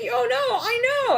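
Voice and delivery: high whimpering oh no; movie-style lovestruck dismay; mock dismay. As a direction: whine it in mock despair. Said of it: "It's like".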